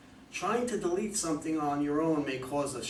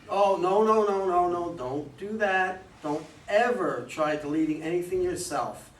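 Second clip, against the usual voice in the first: urgent warning; 3 semitones higher, 4 dB louder than usual. Acted. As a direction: stop her right now, alarmed. Adviser urgently stops her.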